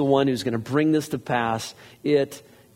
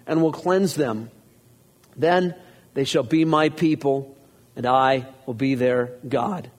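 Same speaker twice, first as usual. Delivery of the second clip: raised, steady reading of scripture; 2 semitones higher than usual. Acted. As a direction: read it out to the congregation. Reads scripture aloud.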